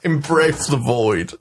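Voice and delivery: gloomy goth deadpan. Pretend. Joins mock gothic despair.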